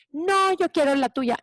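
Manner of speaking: acted childish demand; insistent child. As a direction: play a kid refusing, mildly whiny. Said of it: "gritoneando que él quiere la mía".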